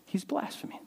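hushed, breathy whisper of blame; whispered accusation. Acted. Scribes whispering in their hearts, hushed whisper. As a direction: hiss it as a secret charge.

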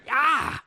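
high-pitched "ah" of mock pain; mock pained yelp. Fourth grader hit on the head by teacher, mock yelp. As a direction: imitate a kid yelping from a knock.

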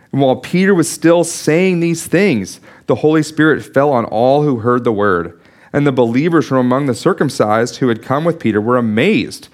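formal Bible reading; scripture reading. Acted. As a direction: read the verses to the congregation. Reads Acts passage aloud.

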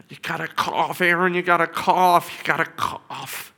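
loud, urgent coaching call; urgent pleading. Retold or imitated. Father urging his son in ICU, loud pleading. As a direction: push him to cough, pleading.

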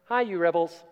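light, breezy and quick; gentle quick greeting. Shown as a demonstration. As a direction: toss it off like a friendly hello. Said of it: "This wasn't a gentle".

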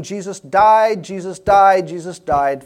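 loud, high, hammered repetition of DIED; insistent teacher. Retold or imitated. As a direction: imitate a teacher drumming it in, loudly. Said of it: "the teacher kept saying".

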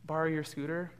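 put-on a light, sweet little-boy ask; sweetest voice. Shy little boy asking a girl for her scooter, sweetly. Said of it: "like, in the sweetest voice".

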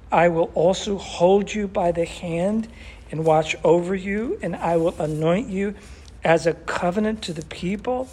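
forceful, declaimed Bible verse; emphatic scripture reading. Acted. Preacher reading God's song to the congregation, emphatic and declamatory. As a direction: proclaim it phrase by phrase, as God's own declaration.

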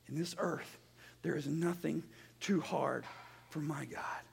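low, soft assurance, spaced in short phrases; hushed preaching. Real, not acted. Preacher assures congregation nothing is too hard, hushed preaching. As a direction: drop the sermon to a quiet, solemn promise.

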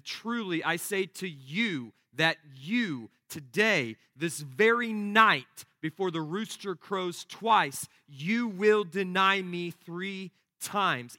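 solemn, deliberate stress on "this very night"; emphatic assurance. Acted. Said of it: "Jesus emphatically assures Peter".

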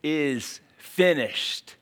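very slow, weighty and hushed; Jesus speaking from the cross, slow and solemn; solemn last words. Acted. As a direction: say it as a final breath. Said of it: "he said the words".

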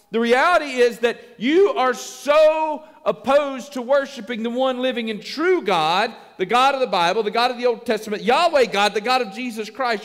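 emphatic, driving reprimand; forceful preaching. Real, not acted. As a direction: bear down on the key words. Preacher voices Paul's reprimand forcefully.

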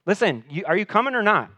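loud, high, insistent demand; desperate father pressing Jesus. Retold or imitated. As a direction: push him hard to come now. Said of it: "he just presses in further".

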